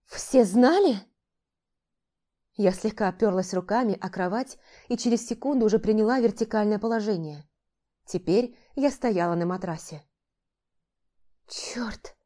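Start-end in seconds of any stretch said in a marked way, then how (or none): 0.1-1.0 indignant. Acted. Heroine learns everyone knew. 11.5-12.2 a breathless, lost whisper of a curse; bewildered whisper. Acted. Heroine stands on the mattress, whispering in confusion. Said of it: "растерянно прошептала я".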